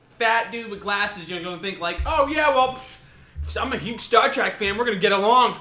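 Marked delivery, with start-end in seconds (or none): 2.1-5.6 louder, higher mocking nerd; loud hammed-up Star Trek fan. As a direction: ham up an eager fan. Mocking a fat guy's assumed thought.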